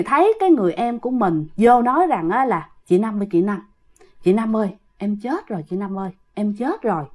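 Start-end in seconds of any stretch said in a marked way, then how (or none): 2.9-7.0 soft, lowered voice from a dream; ghostly announcement. Retold or imitated. Dead younger sister calls to her elder in a dream, ghostly announcement. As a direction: break sad news quietly.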